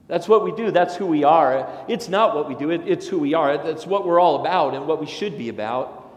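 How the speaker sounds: a ringing declaration of who the church is; emphatic preaching. Real, not acted. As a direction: proclaim it to the congregation. Preaching climax on identity.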